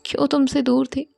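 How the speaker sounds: tender reassurance. Acted. Anshika stroking Aarna's head.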